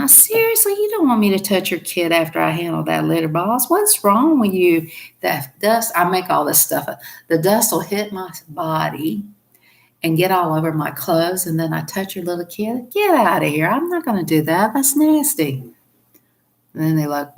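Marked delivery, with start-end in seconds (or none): 0.0-5.9 high, outraged disbelief; indignant refusal. Acted. 7.3-15.6 indignant refusal. Acted. Acted indignant refusal continues.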